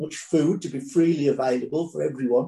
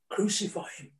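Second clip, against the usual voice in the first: much softer, a hushed murmur; almost a whisper; 5 semitones higher, 9 dB quieter than usual. A narrator's reading. Preacher voicing the crowd's first murmur against Jesus, near whisper. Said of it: "almost a whisper".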